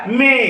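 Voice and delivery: मे with the ay held; long ay sound. Shown as a demonstration. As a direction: model मे for learners, stretching the vowel. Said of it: "ए असा केलेला आहे". (मे मधला ए लांबवून)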